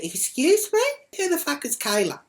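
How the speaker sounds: high, loud challenge; retold indignant reply.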